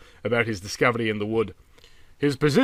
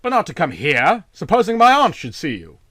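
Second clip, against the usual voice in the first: angry hiss; 5 semitones higher, 5 dB louder than usual. A narrator's reading. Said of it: "asked Van Cheele furiously".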